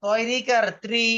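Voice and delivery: "ত্রি" blended into one slow syllable, tri; syllable-blending demo. Shown as a demonstration. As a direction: slowly spell out "তয়রিকার", then sound "ত্রি" as tri. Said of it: "উচ্চারণটা হবে রি এর মতো".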